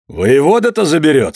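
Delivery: said loudly and high. A narrator's reading. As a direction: call it out loud. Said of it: "сказал он громко".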